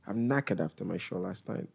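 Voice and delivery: subdued, lightly put-on British accent; British accent attempt. Shown as a demonstration. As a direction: try it quietly in British English. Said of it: "say them in your best British accent".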